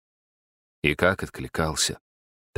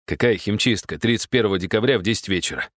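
сердито буркнул. Acted. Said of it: "сердито буркнул он".

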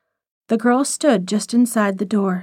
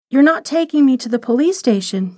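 stammered; 3 semitones higher than usual. Acted. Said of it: "she stammered".

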